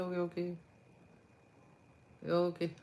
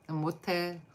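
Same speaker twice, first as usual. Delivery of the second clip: ordinary talk, nothing marked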